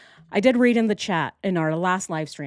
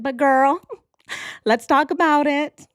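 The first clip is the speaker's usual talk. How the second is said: put-on much higher, fast, eager girl talk; hammed-up high gossiping patient; mock asylum gossip; 7 semitones higher, 4 dB louder than usual. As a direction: rush into the gossip with giddy glee. Imagined inmate in straitjacket.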